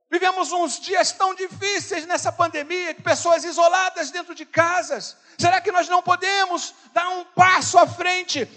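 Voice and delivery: loud, high, driving sermon voice; preaching at full force. Acted. Pastor urging the church to call lonely people, preaching at full force. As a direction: push every line out to the whole church.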